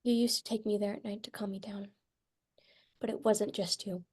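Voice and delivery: whispered, barely breathing it; hushed whisper. Acted. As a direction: hush it like a secret in the dark.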